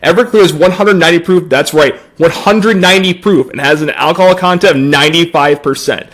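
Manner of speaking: stiff, scripted sponsor-spot voice; robotic ad read. Acted. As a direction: read it like an ad off a sheet, mock-serious. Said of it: "so, like, robotic".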